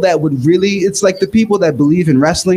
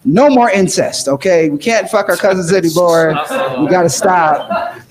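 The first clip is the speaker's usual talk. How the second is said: serious. Retold or imitated. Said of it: "he gets serious with them for once".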